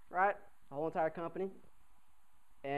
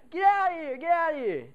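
loud and much higher, shooing him off; shooing shout; 11 semitones higher, 7 dB louder than usual. Retold or imitated. Upperclassman shooing the knob away, high yelling. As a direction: yell get out of here twice. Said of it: "He's like".

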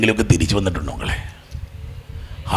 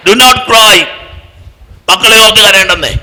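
louder and higher, stress on not; rousing command; 9 semitones higher, 6 dB louder than usual. Acted. Preacher urging the congregation, loud and high. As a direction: declare it to the whole church.

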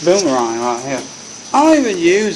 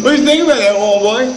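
laughing gloat; 9 semitones higher, 3 dB louder, faster than usual. Acted. Gloating after the prank.

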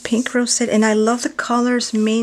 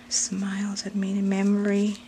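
soft whispered aside; 5 dB quieter than usual. Real, not acted. Unboxing a gift, she whispers to herself. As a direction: whisper it to yourself.

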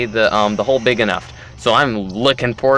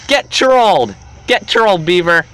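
high, loud taunt; gloating yell; 6 semitones higher, 5 dB louder than usual. Real, not acted. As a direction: crow it at the victim. Gloating at friend in game.

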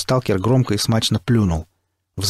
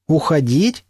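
rising, incredulous echo; surprised question; 6 semitones higher, slower than usual. A narrator's reading. Hero answering the captain, surprised. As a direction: repeat it back in disbelief. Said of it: "удивился я".

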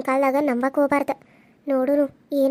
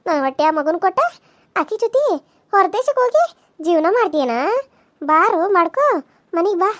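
angry threats; 2 semitones higher than usual. Acted. Hidden wife fumes at the lovers.

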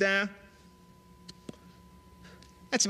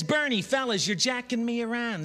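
high, loud indignant complaint; indignant protest; 9 semitones higher, 5 dB louder than usual. Acted. Hamlet protesting to his friends, loud and high. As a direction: protest louder and higher, feeling jerked around.

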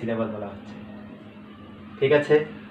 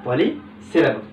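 slow answer; much slower than usual. Shown as a demonstration. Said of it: "সেগুলিকে বলা হবে কি?".

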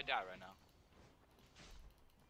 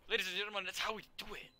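announcer voice; 8 semitones higher, faster than usual. Pretend. Victory announcement.

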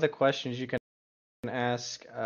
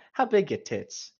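slow, higher put-on dumb voice; mock crude dater; 6 semitones higher than usual. Mocking a crude first date question, slow dumb voice. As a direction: play a clueless creep asking outright.

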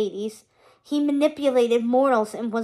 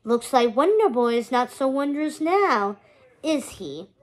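menacing villain voice; gloating, sneering villain; Hades. Acted. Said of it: "His distinctive voice echoed out".

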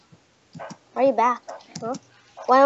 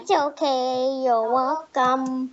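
meme voice; slower than usual. Acted.

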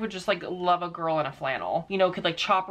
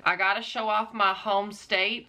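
light put-on country accent; playful hint of country accent. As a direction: show off a mock country accent. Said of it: "If I do this accent too much".

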